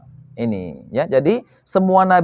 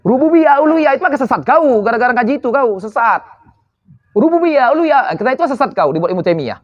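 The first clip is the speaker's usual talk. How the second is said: mocking rivals; 4 semitones higher than usual. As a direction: throw their "you're astray" back at them, scornfully raised. Parodying rival preachers' accusations.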